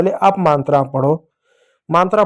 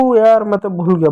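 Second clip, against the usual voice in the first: playful "oh no I forgot"; mock forgetful sigh; 2 semitones higher than usual. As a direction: act like a kid who forgot something. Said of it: "बोलते हैं". (भूलने वाले बच्चे की नकल)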